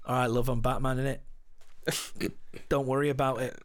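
Batman voice. Acted. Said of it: "Gaz, do you best Batman voice?".

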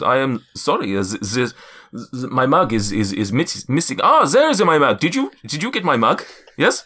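put-on lightly accented, stammering giant; Zephyros. Giant looking for his missing mug, stammering accented voice. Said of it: "floating back down and goes".

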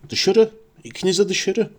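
high, strained rasping order; growled croak. A narrator's reading. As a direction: order them out with a choked rasp. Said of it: "diye hırıldadı".

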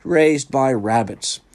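high, loud, drawn-out jealous wail; moaning. A narrator's reading. Wendell jealous of Tarzan's upbringing, loud moaning. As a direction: moan it slowly in theatrical envy. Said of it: "Wendell moaned".

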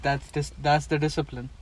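Robert De Niro impression. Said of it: "Then Robert De Niro says".

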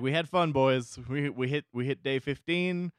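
cheerful give-up speech; we tried, boys; resigned quitter. Acted. Voicing subjects giving up.

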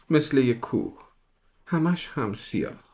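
put-on wide-eyed little girl describing something huge.

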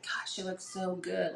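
half-whispered admiring thought; retold awe. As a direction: murmur it softly to yourself, in awe. Retold awed thought to herself.

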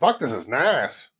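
put-on Australian accent. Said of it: "You're trying to do the Australian accent, eh?".

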